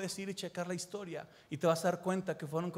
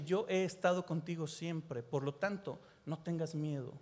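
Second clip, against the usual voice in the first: tender reassurance; 3 semitones lower, 5 dB quieter than usual. Acted. God's promise voiced tenderly.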